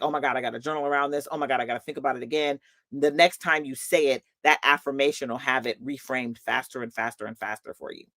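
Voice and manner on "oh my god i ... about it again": flustered rush. Retold or imitated. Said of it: "have you be like".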